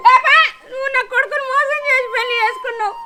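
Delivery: crying accusation; weeping blame; tearful accusation. Acted. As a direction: accuse her through sobs. Mother accuses daughter-in-law.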